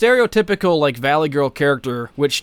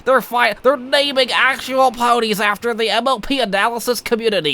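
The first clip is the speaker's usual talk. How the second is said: higher, hammed-up triumphant cheer; mock excited; 7 semitones higher than usual. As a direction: gloat like you made it big. Mock celebrating being noticed by show.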